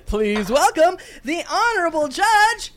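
high, loud grand announcement; self-announcing judge. Acted. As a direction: announce yourself grandly to the court. Judge announces herself, laughing.

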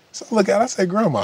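high, amused disbelief calling her name; retelling a stunned reaction to grandma smoking weed; incredulous Grandma. Retold or imitated. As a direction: call out to grandma, half laughing in shock.

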